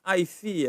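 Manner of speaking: tone-drill "I see"; shown intonation. Shown as a demonstration. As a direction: model the tones of "I see". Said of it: "intonasinya ya".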